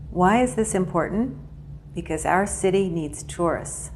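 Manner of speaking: ask, pause, then answer with a falling "tourists"; pause before main point. Shown as a demonstration. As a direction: question rising on "important", pause, "tourists" falling. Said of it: "Pause before the main point".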